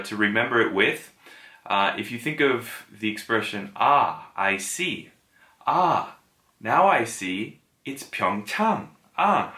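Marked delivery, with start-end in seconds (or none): 3.8-9.5 drawn-out sighs of "Ah" with slow stress on "Pyeongchang"; mnemonic demo. Shown as a demonstration. Teacher acting out a mnemonic for the vowel. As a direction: act out a slow realisation, "Ah, now I see". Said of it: "a little mnemonic for you".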